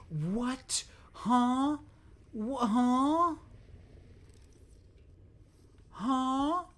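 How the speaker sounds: very high, loud puzzled huh; baffled huh. Real, not acted. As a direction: squeal of confusion. Confused by beeping.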